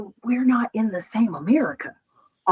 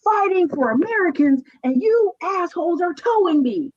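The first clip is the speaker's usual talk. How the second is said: retold crying rant; 7 semitones higher than usual. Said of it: "I'm like".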